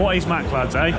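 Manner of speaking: put-on northern English accent. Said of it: "is that the thing with my northern accent".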